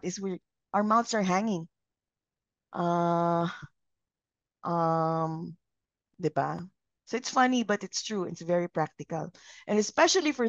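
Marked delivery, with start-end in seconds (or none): 2.7-6.6 slow hesitant uh then um; demo filler uh um. Shown as a demonstration. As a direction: show the hanging-mouth filler. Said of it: "the ah or the um comes out".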